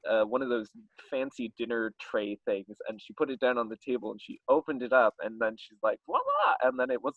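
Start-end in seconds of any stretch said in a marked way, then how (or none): 6.1-6.5 high singsong presentation; mock grand reveal. Hostess unveiling dinner to the couple, mock grand reveal.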